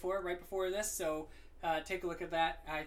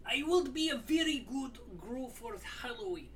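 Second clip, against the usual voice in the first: a hint of the Gru accent; lightly held funny accent; 4 semitones higher than usual. Host still joking in a lightly held accent. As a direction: keep a light put-on accent. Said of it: "a different freaking accent".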